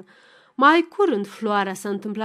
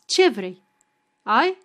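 a short louder demand; curt question; 5 dB louder, slower than usual. Acted. Wife demanding what Savista wants, curt louder question. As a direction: snap the question, impatient.

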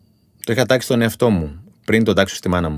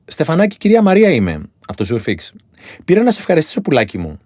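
ψηλότερη, τρυφερή φωνή γιαγιάς; μιμείται με χάρη μια γλυκιά ηλικιωμένη; ηλικιωμένη κυρία; 5 semitones higher than usual. Retold or imitated. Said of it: "Όλες έτσι μιλάνε". (η κυρία Μαρία ευχαριστεί στο τηλέφωνο, ψηλή φωνή)

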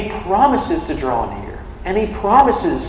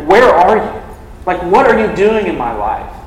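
a raised, pleading cry to God; loud, anguished plea of "Where are you?"; 3 dB louder than usual. Retold or imitated. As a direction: call out to God as if he were absent. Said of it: "he's crying out to him".

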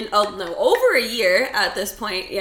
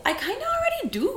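laughing; 14 semitones higher, faster than usual. Real, not acted. Laughing self-deprecation.

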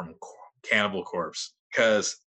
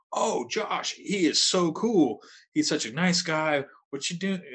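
gushing jovial singer; 7 semitones higher than usual. Retold or imitated. Frontman praising the speaker's brother, gushing and high. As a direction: gush over him like a fan. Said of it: "he's being all jovial".

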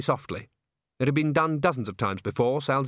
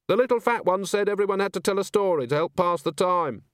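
a rattled coach driver drawling out his memory; 8 semitones higher than usual. Acted. Driver tells the agent, high and dazed.

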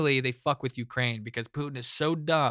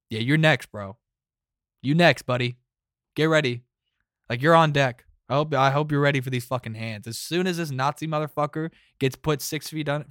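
louder, trash-talking swagger; mock tough-guy threat; 4 dB louder than usual. Eisenhower taunting Stalin at Yalta, loud mock threat. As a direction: square up and taunt him, loud. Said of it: "just the face of, like".

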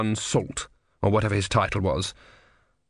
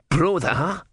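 understated tortoise shout; mild shout; 6 semitones higher than usual. A narrator's reading. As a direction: call out high for attention. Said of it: "shouted the tortoise".

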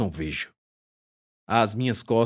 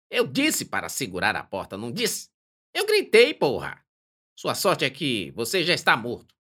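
put-on grumpy old man; 4 semitones higher than usual. Kevin scolds the boys.

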